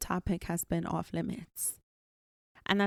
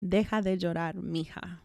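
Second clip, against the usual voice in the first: Deja de llorar, mija said a little slower, word by word; slower Spanish. Shown as a demonstration. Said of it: "let me say it again a little bit slower".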